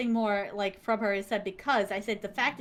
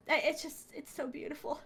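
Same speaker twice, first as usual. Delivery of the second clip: high, soft sigh of admiration; small hushed, high voice; overcome with awe; 4 semitones higher, 7 dB quieter than usual. Retold or imitated. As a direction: sigh it out, overwhelmed by beauty. Overcome by the artwork, after sigh.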